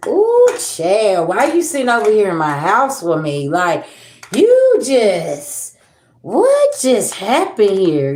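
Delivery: stunned reaction, rising sharply at the start and slowing at the end; retold amazement. Client recalling an uncannily accurate card reader, amazed.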